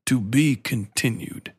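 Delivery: slow, lightly imitated commanding voice; a touch of portentous TV sign-off; Lance Reddick. Quoting an actor's famous line, slow mild imitation. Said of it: "He's got one of the best voices ever".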